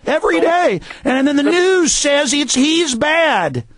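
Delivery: high, heated indignation; worked-up, high-pitched ranting; outraged. Real, not acted. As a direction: hammer it out in disgusted outrage. Outraged account of police assault.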